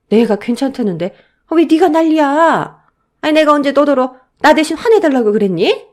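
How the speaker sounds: loud, high, irritated elder; exasperated mother-in-law scolding; angry rebuke. Acted. Mother-in-law turns on her defender.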